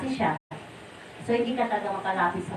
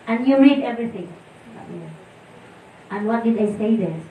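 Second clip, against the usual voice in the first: mild stern questioning; 6 dB louder than usual. Retold or imitated. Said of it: "nagalit siya sa amin".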